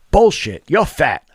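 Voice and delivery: loud, high burst of contempt; angry outburst. Real, not acted. Ranting at dieters who make excuses, loud and scornful. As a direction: spit the word out.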